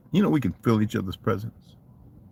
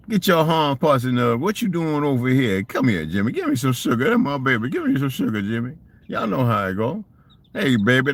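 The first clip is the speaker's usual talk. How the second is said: put-on country accent; 5 semitones higher than usual. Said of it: "Oh, country ass accents".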